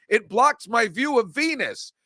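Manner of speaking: a hint of the Bugs Bunny Martian, slow and a bit high; barely-there Martian cartoon impression; lightly voiced cartoon Martian. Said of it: "I'm like that Martian in Bugs Bunny".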